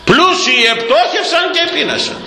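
a sudden preaching shout; shouted warning. Real, not acted. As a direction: thunder the verse at the flock.

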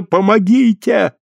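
high hoarse cry for help; exhausted hoarse plea. A narrator's reading. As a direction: cry out, worn out and terrified. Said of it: "кричала хрипло измученная". (измученная женщина хрипло зовёт на помощь)

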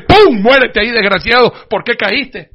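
mock killer. Mock shooting the fallen friend.

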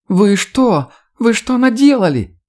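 high-pitched hysterical wail; hysterical woman. A narrator's reading. Woman on the side bunk reacts to killings, hysterical. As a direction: voice jumps way up, shrieking in panic. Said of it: "истеричный женский голос".

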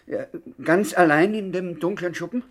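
scared, laughing bluster; frightened little man laughing it off; nervous laugh. Acted. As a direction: laugh off the fear. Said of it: "Der kleine Bongo aus Milwaukee hat Angst".

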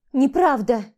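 plain reading voice

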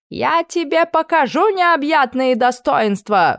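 furious howl. Acted. Becky howling at the camp cook, furious. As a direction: howl it at him, swinging the ladle. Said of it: "взвыла Бекки".

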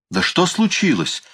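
a high-pitched, startled cry; alarmed exclamation. A narrator's reading. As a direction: she cries out, alarmed. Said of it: "воскликнула она".

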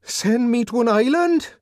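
high, loud, panicked cry; panicked disbelief. A narrator's reading. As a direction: terror breaking through. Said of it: "galvanized Bernard into a violent and unseemly activity".

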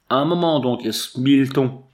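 sudden loud call from the dark; exclaiming. A narrator's reading. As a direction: call out, startled. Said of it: "s'écria-t-elle".

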